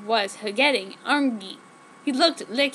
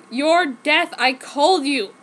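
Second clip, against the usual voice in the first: raised voice; 3 semitones higher, 5 dB louder, slower than usual. Acted. Accusing the returned man.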